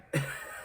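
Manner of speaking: short, breath-only chuckle; small quiet laugh at your own remark. Real, not acted. Jokes the film is just sad, soft chuckle.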